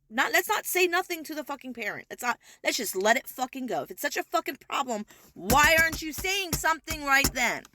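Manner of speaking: building frustrated shout; angry rant. Real, not acted. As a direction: vent real anger at the caseworkers. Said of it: "Like, I'm getting so angry".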